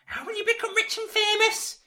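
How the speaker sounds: wicked stepmother. Acted. Mother scolds Meg.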